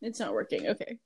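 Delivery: breathless after laughing; out of breath, trying to breathe. Real, not acted. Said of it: "trying to breathe".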